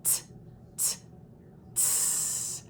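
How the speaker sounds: "t" released into a long hiss; held out T. Shown as a demonstration. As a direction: hold the "t" into a hiss. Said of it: "hold out that T sound".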